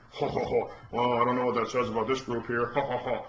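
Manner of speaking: lightly voiced evasive chuckle around the words; mock Obama chuckle. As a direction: laugh it off like a dodging politician. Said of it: "it was like".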